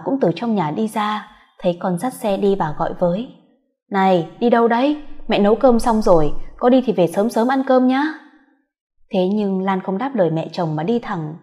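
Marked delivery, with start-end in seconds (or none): 3.9-8.0 mother-in-law calling her back for dinner; calling after her. Acted. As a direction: call out to someone already leaving. Mother calls after daughter-in-law.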